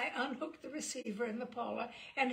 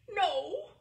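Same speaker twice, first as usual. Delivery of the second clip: tearful no; 9 semitones higher, 10 dB louder than usual. Acted. Crying child on phone.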